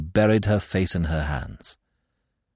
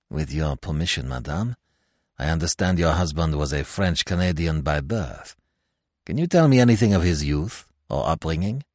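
lower, quieter formal French judge; measured questioning of a widow; magistrate's voice; 5 semitones lower, 3 dB quieter than usual. Acted. Magistrate questioning the widow, lower and formal.

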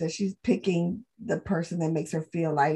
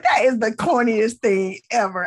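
retold scorn; 2 semitones higher, 6 dB louder than usual. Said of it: "I was like".

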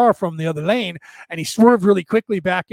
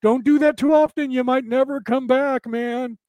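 worried ego voice; 6 semitones higher than usual. Retold or imitated. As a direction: play the fearful ego, pitched up. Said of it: "That's the ego saying".

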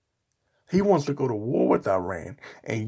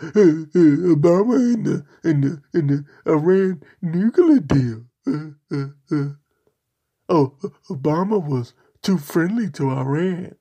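mock conservative whine; 2 semitones higher, 5 dB louder than usual. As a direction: parody the flustered critic, stumbling over words. Mocking conservatives' complaints.

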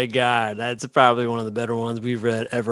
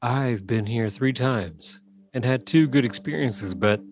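sultry voice. Acted. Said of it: "put on your sultry voice".

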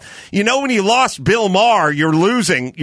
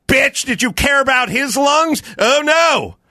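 shouting; 5 semitones higher than usual. Real, not acted. Mocking mask hypocrites.

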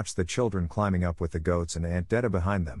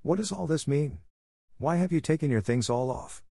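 higher, agitated aunt's voice; excited scolding; 7 semitones higher than usual. A narrator's reading. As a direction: demand an answer, pitched up and upset. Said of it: "Detta said excitedly".

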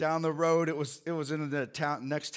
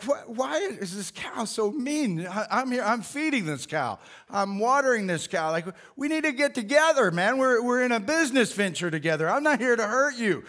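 higher-pitched, baffled talk to a mean cow; exasperated plea; 5 semitones higher than usual. Retold or imitated. Farmer pleading with his mean cow, baffled and higher. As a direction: plead with the cow in mock disbelief.

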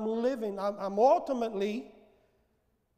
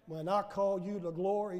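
gentle voice of the Lord; 5 semitones lower, 6 dB quieter than usual. Retold or imitated. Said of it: "The Lord says".

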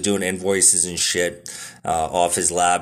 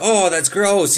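higher, playful fake disgust; mock disgust; 10 semitones higher, slower than usual. Kid tasting salted coffee for his dad, mock disgusted. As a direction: pretend to hate the coffee. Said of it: "I was like".

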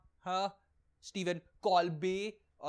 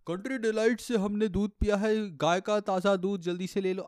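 mock milk ad; 4 semitones higher, 7 dB louder than usual. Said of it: "I see him on this ad".

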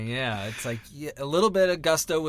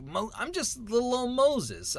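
pitched way up, small and timid; meek little Moses; 10 semitones higher than usual. Acted. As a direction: shrink into a humble nobody. Acting Moses as meek underdog.

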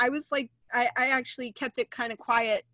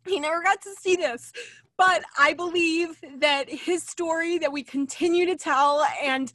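emotional, near tears. Real, not acted. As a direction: voice catching with real tears over a lost friend. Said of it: "I'm sorry I'm so emotional".

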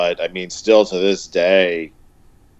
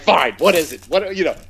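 slower, drawn-out mock exasperation; a fed-up friend finally giving in; giving in, exasperated; 4 semitones higher than usual. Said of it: "he's just like".

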